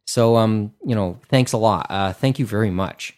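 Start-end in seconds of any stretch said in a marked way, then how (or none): 1.3-3.1 thanks that accidentally sound sarcastic; real gratitude coming out a touch sarcastic; unintended sarcastic tone. Real, not acted. Podcaster thanking the Kickstarter people for digital copies, accidentally sarcastic. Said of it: "I sounded like I was going with a sarcastic tone there".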